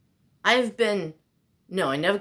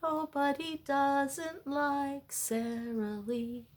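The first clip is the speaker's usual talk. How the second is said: slow, higher ad-announcer delivery; commercial jingle voice; 8 semitones higher, 4 dB quieter, slower than usual. Retold or imitated. Quoting the Sara Lee commercial, slow ad-voice. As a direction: sell it like an old TV ad. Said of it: "That was a commercial".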